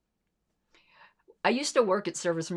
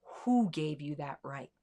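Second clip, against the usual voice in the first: much softer, slow, fury held under the breath; seething quietly; 3 semitones lower, 7 dB quieter than usual. Retold or imitated. Woman recalling her inner rage at the kid, quiet seething. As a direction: barely voice the rage, slowly. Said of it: "all I could think about was".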